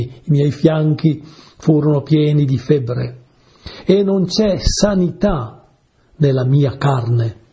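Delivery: slow, drawn-out recital of the verse; solemn scripture reading. Acted. Preacher reads the psalm to his listeners, slow and solemn. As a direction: read the line of the psalm with weight.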